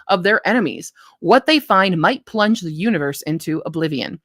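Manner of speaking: animated read-aloud of a blurb; story-pitch narration; book blurb reading. Acted. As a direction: read it like a back-cover teaser.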